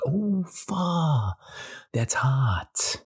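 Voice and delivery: high pained yelp, oh fuck; sudden yelp at heat. Retold or imitated. Feeling hot wax on skin, a pained yelp.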